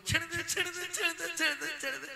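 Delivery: high, rapid pleading little yelps; imitated weak dog. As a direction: beg for release as an underdog in a squeaky voice. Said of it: "আর দুর্বল কুকুর শুধু বলছে".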